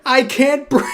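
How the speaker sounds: high, laughing mock "I can't breathe"; mocking quote cracking up. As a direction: parrot the line through a laugh, mocking. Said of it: "Hit him with the".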